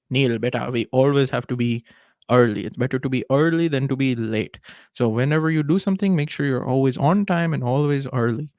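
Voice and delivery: put-on light Indian accent, fatherly advice; a hint of an Indian dad. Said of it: "bring out the Indian accent today".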